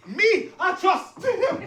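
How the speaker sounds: drawn-out, high slow-motion cry; comic slow-motion dive into a line. Retold or imitated. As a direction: stretch every word like a slow-motion replay. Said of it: "fast moments in life move in slow motion".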